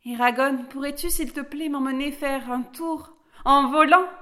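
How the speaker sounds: put-on eager little girl. A narrator's reading. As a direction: ask eagerly, ending loud and high. Little Alice asks dragon for a ride.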